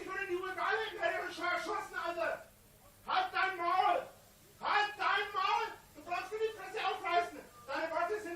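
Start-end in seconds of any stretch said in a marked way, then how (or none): 3.1-5.7 berserk rage. Real, not acted. Shouting down hecklers.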